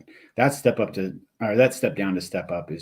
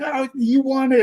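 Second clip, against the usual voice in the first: high, louder mock cheer; raised voice imitating excited onlookers; imitated crowd yell; 5 dB louder than usual. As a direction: call it out like a whole crowd. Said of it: "the whole crowd's yelling".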